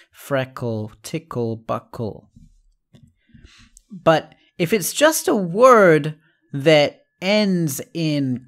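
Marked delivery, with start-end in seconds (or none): 0.1-2.3 "Freckle, tickle, buckle" softly, the L E as its own syllable; syllable demo. Shown as a demonstration. Teacher softly modelling the split for students. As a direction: quietly sound out "Freckle, tickle, buckle" with the L E apart. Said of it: "It's a separate syllable".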